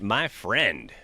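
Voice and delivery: ordinary delivery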